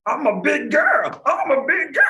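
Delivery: a singsong, high-pitched imitation of a student's protest; mocking big girl voice. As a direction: tease them in a high little-girl voice. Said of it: "Y'all talking about".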